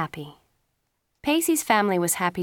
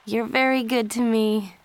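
grateful, slightly raised voice; mildly happy, higher-pitched thanks; 4 semitones higher than usual. A narrator's reading. Joey thanks her sister, mildly happy. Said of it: "she said happily".

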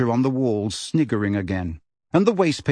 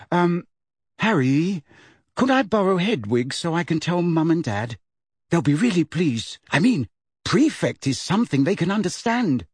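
higher-pitched, hesitant friend warming up; hesitant girl; 5 semitones higher than usual. Acted. Girl asking to borrow an owl, tentative then eager. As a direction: start awkwardly, then grow pleased.

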